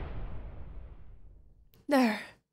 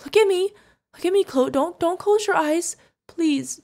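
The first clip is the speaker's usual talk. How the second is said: loud, high urgent plea; frantic pleading; 6 semitones higher, 6 dB louder than usual. Acted. Guardian begs wounded kid to stay awake, frantic plea. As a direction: beg urgently, voice raised.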